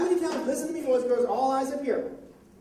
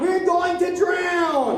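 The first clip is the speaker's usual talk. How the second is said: slow, drawn-out, higher cry of alarm; panicked disciples' cry; 4 semitones higher, 3 dB louder, much slower than usual. Acted. Teacher feeds children the disciples' line, drawn-out cry. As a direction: call it out slowly for others to echo.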